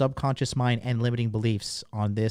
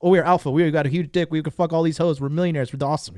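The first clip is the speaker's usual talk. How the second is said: excited subconscious voice; 4 semitones higher, 4 dB louder than usual. Retold or imitated. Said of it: "your subconscious mind's like".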